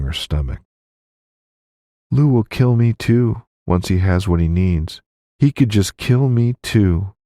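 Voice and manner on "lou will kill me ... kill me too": put-on higher, anxious young woman's voice; frightened widow. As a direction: voice the widow, scared for her life. Violet voiced by the reader.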